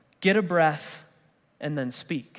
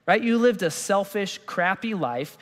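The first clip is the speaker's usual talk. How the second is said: dismissive brush-off; 4 semitones higher than usual. Retold or imitated. Preacher voicing the crowd's scorn for the criminal, mock dismissive. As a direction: wave the criminal off as a lost cause. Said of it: "most of us would look at him and go".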